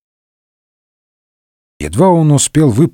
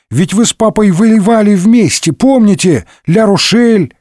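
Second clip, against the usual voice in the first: put-on higher, eager boyish pleading; boy reminding Д'Артаньян of his father, eager and high; eager youth; 7 semitones higher than usual. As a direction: remind him like a keen lad. Young boy eagerly reminds him.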